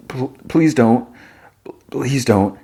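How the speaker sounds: halting, stammered begging; frightened plea. Acted. Woman on her knees begging the gunman, halting plea. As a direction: plead with a catch on each please.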